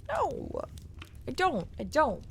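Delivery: very high sharp no; protest. Real, not acted. Streamer refusing the industry's claim in a very high no. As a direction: shoot it down high.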